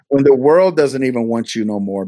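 repeating the line through a laugh. Real, not acted. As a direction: laugh it out as you say it again. Repeats punchline while laughing.

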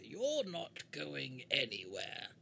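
slow, deliberate character voice; slow warning to a foe; in-character declaration. Acted. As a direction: draw out every word as a command. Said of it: "and I say".

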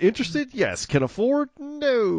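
squeaky comic answer. Retold or imitated. Joking answer to clerk.

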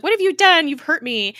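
high, loud, hammed-up reproach; mock outraged. Ada to the Rider who wounded her, mock outraged. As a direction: imitate a wounded, shocked accusation. Acting out Ada's hurt reproach.

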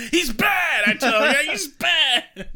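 high, loud, hammed-up tattling; playful shrieked accusation; mock childish accusation. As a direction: cry it out like an alarmed kid. Joining in as the little girl.

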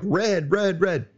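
high-pitched voice of blinking warning lights; voicing the warning lights. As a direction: play the little lights crying red. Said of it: "they're like".

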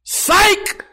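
high-pitched yelled gotcha; mock yell. Reverend pulling away a fake handshake, imitated gleeful yell. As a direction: yell it like a childish prank. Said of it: "pulled it away and yelled".

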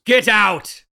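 angry order. Acted. Man orders nosy neighbor out, angry.

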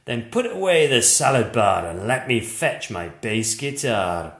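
a hurt monster lecturing kindly; gentle monster. A narrator's reading. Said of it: "he said".

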